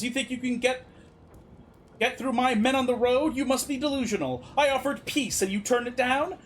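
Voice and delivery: indignant ruler, hardening into a warning; lightly acted leader laying down an ultimatum. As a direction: scorn their demands, then threaten war. Voices a ruler refusing demands.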